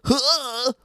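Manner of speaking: badly faked Ukrainian accent, nearer to country; hammed-up Ukrainian-American immigrant accent; attempted Ukrainian-American accent. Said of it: "like, Ukrainian American".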